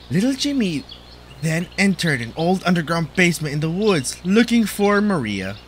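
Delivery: mock storyteller voice; story narration.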